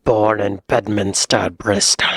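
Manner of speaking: light Bristol accent imitation, rolled R. Repeating a Bristolian's words from the clip, in a light Bristol accent. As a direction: echo it with a West Country burr. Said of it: "It's fun to talk like that".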